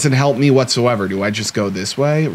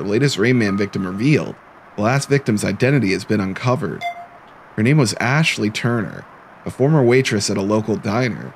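tag. Acted. Reads newspaper report aloud.

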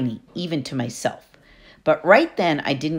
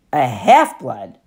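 slow, lower, stunned echo of half-blood; stunned question; 3 semitones lower, 5 dB louder, slower than usual. Acted. Percy echoes Annabeth in shock, slow stunned question. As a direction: repeat it in disbelief, slowly.

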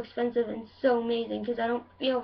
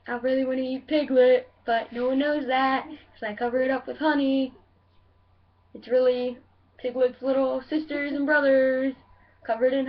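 Pooh Bear. Acted. Comedian introducing himself as a weird bear, lightly put-on Pooh voice. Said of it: "now I'm gonna do Pooh Bear".

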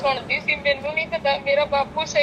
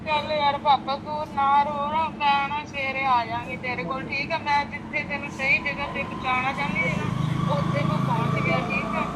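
soothing; 2 semitones lower, 6 dB quieter than usual. Real, not acted. Daughter soothing crying father.

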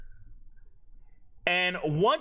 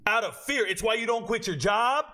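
usual speaking voice

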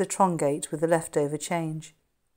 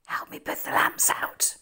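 urgent whispered request. Acted. Jimmy to friends in hiding, urgent whisper. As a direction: whisper so no one outside hears.

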